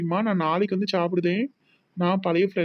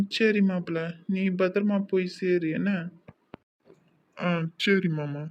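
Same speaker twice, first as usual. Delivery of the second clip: two tipsy men stagger home talking nonsense; drunk banter. Acted. Uncle and son-in-law tipsy after drinking, mildly slurred drunk talk. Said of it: "நம்ம தானே சரக்கு போட்டிருக்கோம்".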